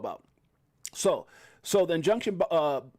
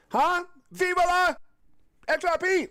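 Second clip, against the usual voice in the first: triumphant shout for XRP; excited cheer; 12 semitones higher than usual. Real, not acted. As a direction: cheer it out like a victory chant. Crypto vlogger cheering for XRP.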